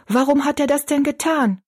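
high-pitched, wondering question; amazed exclamation. A narrator's reading. Kitchen girl asks why he did it, high and amazed. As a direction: lift the voice in puzzled amazement. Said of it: "rief Betty Ann".

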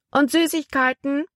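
put-on little boy. A narrator's reading.

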